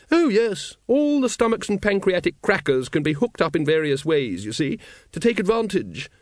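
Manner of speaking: high, loud lady's voice; high-pitched, forceful lady expert; Lady Ramkin, enthusiastic. A narrator's reading.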